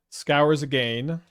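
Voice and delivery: slow Canadian vowel on scours; drawn-out Canadian accent slip. Real, not acted. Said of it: "Sorry for the little Canadian accent slip".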